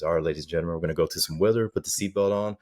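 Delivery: understated calm, like a captain on the intercom; calm pilot. Retold or imitated. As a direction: lightly imitate an unruffled pilot announcement. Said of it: "And he's all calm".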